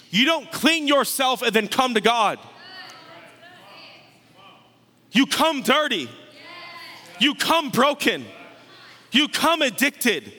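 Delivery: emphatic, rhythmic sermon refrain; climactic preaching. Real, not acted. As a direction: hammer out each phrase to the congregation. Preaches climactic list at full force.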